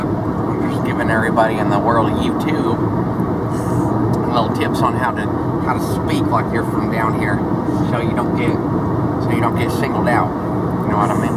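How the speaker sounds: put-on Southern accent. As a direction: coach YouTube in country talk. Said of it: "I'm gonna talk like this".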